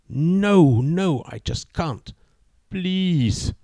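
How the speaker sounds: put-on high, anxious young woman; nervous girlfriend. A narrator's reading. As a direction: plead with him, worried. Girlfriend refusing.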